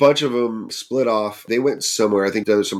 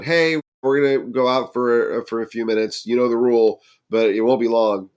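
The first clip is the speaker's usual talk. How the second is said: mild hollering; 2 semitones higher, 4 dB louder than usual. Retold or imitated. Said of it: "kinda hollers down at us".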